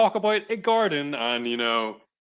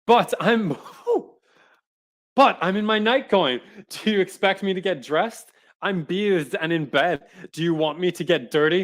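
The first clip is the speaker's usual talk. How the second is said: woman's voice; 5 semitones higher, 4 dB louder than usual. Acted. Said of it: "The woman".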